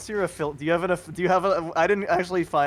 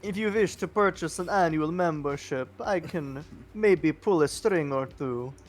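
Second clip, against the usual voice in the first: put-on Transylvanian accent. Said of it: "speaking in this accent".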